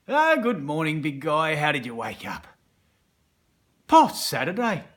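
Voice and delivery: loud, bright mock greeting; dark side greeting you after lunch; cheery dark side. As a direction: greet him like an old mate.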